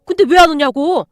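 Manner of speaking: loud scolding yell; angry shout. Acted. Angry father yelling at the boy at the police station, loud. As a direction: berate the boy furiously.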